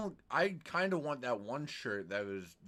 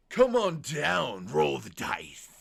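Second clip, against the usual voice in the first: slow, slick showman devil; lightly voiced slick devil host; Gambler's Devil voice; 3 dB louder, slower than usual. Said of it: "I always refer to it as Gambler's Devil".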